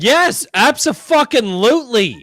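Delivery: loud, high, thrilled yelling; excited shout. Real, not acted. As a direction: grab the offer like it's a prize. Eager to claim the giveaway book.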